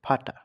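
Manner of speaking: "ফাটা" opening on an F sound. Shown as a demonstration. Teacher shows the V in native German words, F-sound demo of "ফাটা". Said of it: "ফ এর মতন উচ্চারণ করে".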